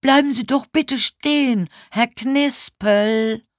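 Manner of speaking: high, loud plea to halt; urgent high-pitched shout; loud call. A narrator's reading. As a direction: call after someone running off. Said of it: "rief ich laut".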